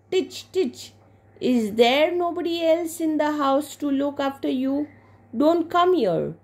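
put-on high-pitched, cross little-girl scolding; acted childish annoyance; scolding big sister. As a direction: shoo away a pestering baby sister. Girl scolding her baby sister.

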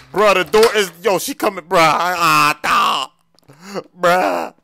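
high, loud cries of alarm; panicked yelling. Acted. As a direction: yell as she closes in. Visitor coming, door stuck.

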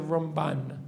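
ramBAN, final syllable stressed; stress at the end. Shown as a demonstration. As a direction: let the weight of Ramban land on BAN. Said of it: "if his stress was at the end".

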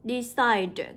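"Decide" stressed on -CIDE, drawn out; nhấn âm hai. Shown as a demonstration. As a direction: lean on the second syllable of "Decide". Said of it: "cũng sẽ nhấn vào âm hai". (đọc "Decide" nhấn vào "cide")

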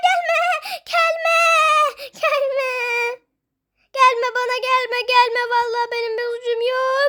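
whining, pleading wail; mock crying. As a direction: beg tearfully, stretching the last word. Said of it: "Kanka ağlama tamam". (ağlamaklı yalvarma)

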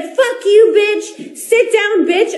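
high mocking impersonation with a laugh; lightly voiced sneering insult; mock LeBron insult. Fan mimicking the player cursing at her, mocking. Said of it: "he literally was like".

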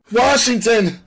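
very high, loud frightened shout; fearful cry. A narrator's reading. Suspect naming the man to police, fearful cry. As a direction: blurt the name in a terrified high voice. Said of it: "Sam's voice was etched with fear".

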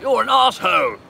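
high, loud British put-down; hammed-up British insult; mock British insult. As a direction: sneer it like a rude Brit. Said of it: "In British, you're like".

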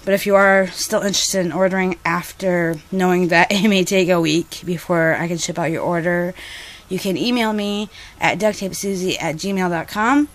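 a little breathless, catching air; winded, talking between breaths. Real, not acted. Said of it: "Sorry, I'm out of breath".

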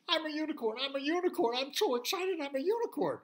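high, loud happy chant; excited pig. Acted. New unicorn telling himself the news, high and giddy. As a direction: bounce along, thrilled to bits.

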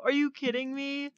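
crushed, high-voiced protest; high-pitched disbelief. Real, not acted. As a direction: trail off high in sheer disbelief. Disbelief at being voted out.

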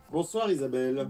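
speaking with a sore throat. Real, not acted. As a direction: voice strained by tonsillitis. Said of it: "Ce soir j'ai une angine".

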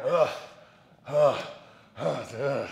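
imitating his own grunting, short and pushed; mock gym grunts. Mocking his own gym grunts as noises. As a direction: grunt like lifting heavy. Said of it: "I was like".

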